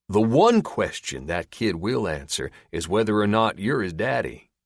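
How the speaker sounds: a lightly voiced drawling captor, amused; a hint of a smug redneck; sly backwoods captor. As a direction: tease him with the answer. Gil taunting the captive.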